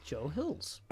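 halting beginner's Mandarin with exaggerated tones; slow, careful, badly pronounced Chinese; terrible Chinese. Shown as a demonstration. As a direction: attempt Mandarin tones slowly and clumsily. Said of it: "That's a terrible, terrible Chinese".

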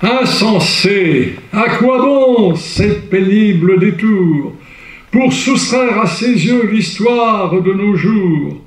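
grand theatrical verse reading; declaimed verse. Shown as a demonstration. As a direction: declaim the poem with rising fervour. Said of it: "Vous voyez, c'est enlevé".

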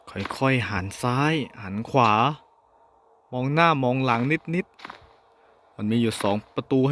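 slow, lightly eerie narrator voice; changed voice. Pretend. Gamer narrating his careful steps in a slow, eerie voice. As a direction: creep through the words slowly. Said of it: "ทำไมเสียงผมเปลี่ยนไปล่ะ".

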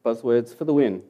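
normal talking voice

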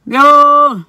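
a loud, high Yo!; excited yo. Real, not acted. Telling viewers about the Botswana link, excited yell. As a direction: burst out in amazement. Amazed at the coincidence.

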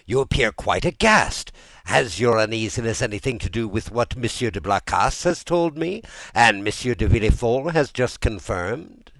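high and urgent; exclaimed. A narrator's reading. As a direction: press the question loudly. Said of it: "he exclaimed".

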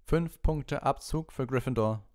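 high, loud, slow spiteful verdict; spiteful Snape. Acted. Snape docking points from Gryffindor, slow and spiteful. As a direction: drag out each word of the penalty.

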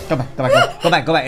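laughing. Real, not acted. Panicked laughing instructions in game.

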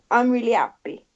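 lightly put-on Italian accent, barely there; bad Italian accent. Quoting Rossi's interviews in a bad Italian accent. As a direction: quote Rossi with a half-hearted Italian accent. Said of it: "the really bad Italian accent".

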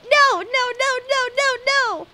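high, loud repeated no; emphatic refusal. Real, not acted. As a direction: shut it down hard. Refusing scam.

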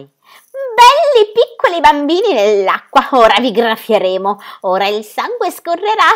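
high, slow, sing-song harpy jeer; gloating creature chant; taunting harpy. Acted. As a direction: croon the threat like a cruel bird-witch. Harpies taunt the children.

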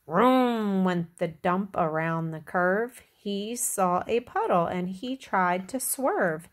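put-on measured read-aloud for little children; story narration. A narrator's reading. Reader tells children about Little Blue Truck, storytelling. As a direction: read it out like a picture book. Reads picture book to children.

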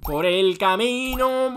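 drawn out very slowly; slow echo. Pretend. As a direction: stretch each word as you echo it. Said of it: "echoes friend's phrase twice". (eco lento y alargado)

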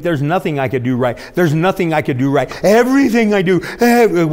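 mock despair; dramatic despair. Preacher mocking a despairing believer. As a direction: overdramatic self-pity. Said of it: "we get dramatic".

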